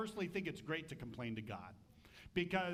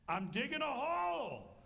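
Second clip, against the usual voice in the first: gruff husband; 9 semitones higher, 5 dB louder than usual. Retold or imitated. Achan answering wife.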